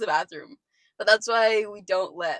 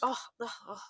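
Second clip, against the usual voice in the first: imitated groans; 3 semitones higher, 7 dB quieter than usual. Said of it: "he was just like".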